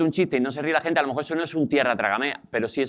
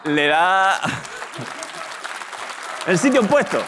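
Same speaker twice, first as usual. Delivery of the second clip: emphatic exclamation; 3 semitones higher than usual. Real, not acted. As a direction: call out the punch line, pitched up. Recalca el chiste entre risas.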